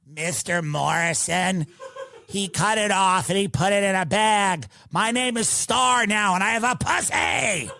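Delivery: lightly voiced kid, half laughing; cheerful kid. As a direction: play the kid proudly announcing. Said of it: "the kid goes".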